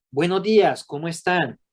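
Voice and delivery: bright, friendly hello on entering a room; cheerful greeting. Retold or imitated.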